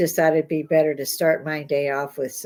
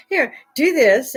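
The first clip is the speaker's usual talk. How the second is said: slow and louder, offering it up; mock offer; 7 semitones higher, 6 dB louder than usual. Quoting the salesman pitching the chip, slow mock offer. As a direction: hold it out like a salesman.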